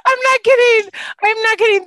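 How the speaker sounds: high and loud, still laughing; laughing insistence. Real, not acted. Insisting to friends the story is true, laughing. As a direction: insist through the giggles.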